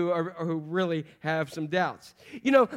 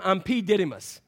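mock rapper intro. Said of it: "sound like a bad rapper's name".

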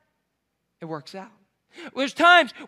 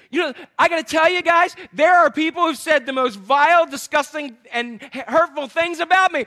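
loud, raised-pitch proud announcement; mock boasting; 4 semitones higher, 5 dB louder than usual. Preacher brags of vile insults, loud mock pride. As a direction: announce the hurt like good news.

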